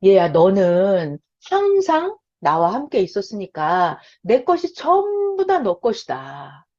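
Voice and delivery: calm a resentful son, slowly; gentle father. Retold or imitated. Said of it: "아버지가 큰아들한테 말합니다".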